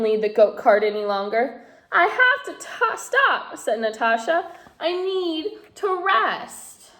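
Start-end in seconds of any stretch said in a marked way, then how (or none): 1.9-6.9 put-on a worn-out girl pleading; tired little girl. A narrator's reading. Tired Natasha.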